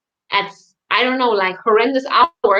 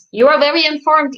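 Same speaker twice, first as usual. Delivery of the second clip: louder, higher mock-impressed praise; teasing praise; 6 semitones higher, 4 dB louder than usual. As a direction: ham up being impressed to tease Isa. Teasing friend, then repeat.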